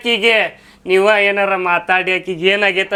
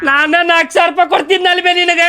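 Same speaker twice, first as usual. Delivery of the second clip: anguished wail. Acted. Son laments hospital bill to his mother, anguished wail. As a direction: wail in exasperated despair.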